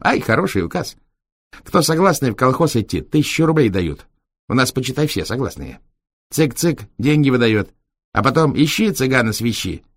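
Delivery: high, lively streetwise gypsy talk; gypsy driver voice. Acted. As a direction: rattle on like a cheeky gypsy. Длинный рассказ Витька. (бойкий голос цыгана)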